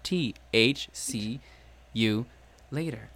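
one word at a time, slow; staccato. Shown as a demonstration. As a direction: space each word out, clipped and separate. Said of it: "went one word at a time".

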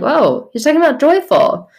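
reacting to discovering the verse, delighted; excited realization. Reader realizing the verse, amazed and high. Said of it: "I'm like".

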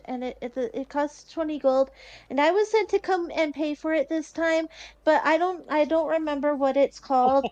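hesitant, stumbling shy request. Acted. Shy girl ordering food for her party, hesitant. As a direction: falter and restart like a shy child ordering. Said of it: "like, really shyly".

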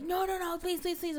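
high mock begging no no no; mock pleading. Guy at gunpoint begging her not to shoot, high mock pleading. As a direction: beg for your life, half-joking.

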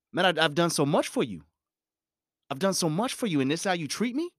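high, half-whispered mock hurt; acted hurt friend. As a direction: play wounded and let down. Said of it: "I'm just acting".

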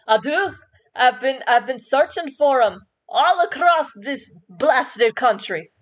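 a fed-up bird complaining; grumpy bird voice. Acted. Terry complains to the druid about his search, grumbling.

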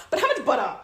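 mildly frustrated repeat question. Acted. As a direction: press the question, a touch exasperated. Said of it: "And I'm frustrated now".

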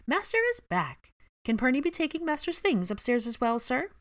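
high, eager little elf voice; house-elf voice. Acted. House-elf greeting her master eagerly, high squeaky voice.

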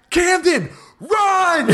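high-pitched comic panic, breaking into laughter; retold panicked cry. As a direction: cry out a frantic warning, half laughing. Retold panicked warning to child.

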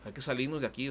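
mock frightened lady. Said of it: "me decía".

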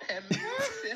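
put-on high, loud comic American accent. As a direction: exclaim in a hammed-up American accent. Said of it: "You were doing your American accent".

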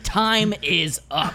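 slow, drawn-out mock declaration; mock aggressive. Co-host imitates his friend barging in, mock aggressive. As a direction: announce it word by word, playfully forceful. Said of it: "you did come in here very aggressive".

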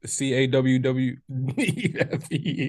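spelled out slowly, letter by letter, as C A W W E F E; slow mock spelling of "coffee" as "cawwefe"; spelling New York coffee. Shown as a demonstration. Teasing the Southern girl by spelling New York "coffee". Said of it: "how do you say coffee".

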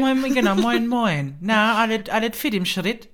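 moin moin hammed up high and loud, northern style; Plattdeutsch accent. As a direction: greet like a cheery Plattdeutsch local. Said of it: "so plattdeutsch".

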